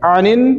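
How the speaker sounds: आनिन with the नून held in the nose; ghunna on the doubled noon. Shown as a demonstration. Quran teacher showing the student a held nasal noon. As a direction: hold the nasal hum on आनिन before releasing. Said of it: "नून को नून में मिला देंगे".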